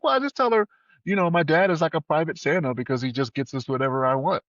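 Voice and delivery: lightly voiced little girl, high. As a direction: chirp it like a proud kid. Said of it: "She's like".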